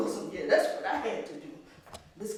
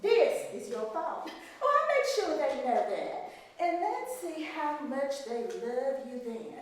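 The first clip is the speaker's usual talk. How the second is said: a hint of a cold, scolding mistress; stern plantation mistress; 3 semitones higher than usual. Mistress scolding the maid over the broken vase, coldly.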